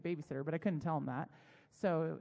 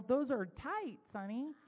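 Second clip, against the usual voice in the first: slow, higher mock exasperation; exasperated correction; 5 semitones higher, slower than usual. Wife correcting husband about daughter's outfit, exasperated. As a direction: spell it out slowly for a clueless spouse.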